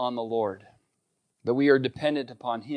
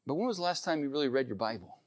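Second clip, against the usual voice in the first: loving, gentle question; 8 dB quieter, faster than usual. Retold or imitated. Wife carefully asking her friend a hard question, gently loving. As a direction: ask it softly, imitating a caring wife. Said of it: "with as much love as I can muster".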